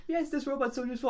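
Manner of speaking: high, chirpy fake delight; mock enthusiasm. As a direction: gush over the robot. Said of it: "everyone's like".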